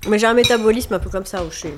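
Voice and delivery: talking with a mouthful; mouth full. Real, not acted. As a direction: speak through a bite of cake. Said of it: "Pardon, j'ai la bouche pleine".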